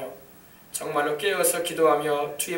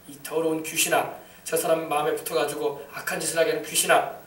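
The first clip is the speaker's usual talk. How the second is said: commanding exorcism; 3 semitones lower, 4 dB louder than usual. Shown as a demonstration. Preacher showing how to command an unclean spirit, building to a shouted rebuke. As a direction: hold back, then blast the final order. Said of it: "이렇게 명령을 내려야 돼요".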